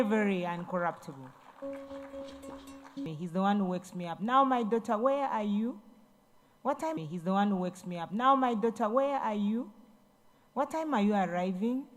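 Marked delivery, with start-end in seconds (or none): 4.2-7.0 lightly voiced fond father calling his daughter; a caring dad checking in kindly; mild, loving fatherly question; gentle father. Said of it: "he doesn't talk like that". 8.1-11.9 lightly voiced fond father calling his daughter; a caring dad checking in kindly; mild, loving fatherly question; gentle father. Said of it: "he doesn't talk like that".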